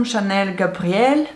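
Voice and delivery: brand name tried in a French accent. Real, not acted. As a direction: say Chanel Gabrielle the French way. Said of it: "sorry if my French accent is horrible".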